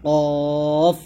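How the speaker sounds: কফ long and heavy from the back of the tongue; thick qaf. Shown as a demonstration. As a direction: stretch কফ out with a thick first sound. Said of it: "কফটা মোটা করে উচ্চারণ করতে হবে".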